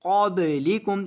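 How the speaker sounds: क़ब्लिकुम with the ब bounced, a small echo; qalqala on ba. Shown as a demonstration. Teacher showing qalqala, crisp deliberate recitation. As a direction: give the ब in क़ब्लिकुम a little bounce. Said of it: "बा को हिलाएंगे".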